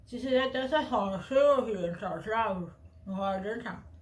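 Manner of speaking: cork held in the teeth with the lips barely moving; cork in teeth, stiff lips. Shown as a demonstration. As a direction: speak around the cork without moving your lips. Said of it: "se você fizer desta forma assim, ó".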